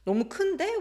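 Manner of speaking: 큰데 swung up high like a question; rising intonation. Shown as a demonstration. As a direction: end 큰데 on a surprised rise. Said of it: "it's always rising intonation".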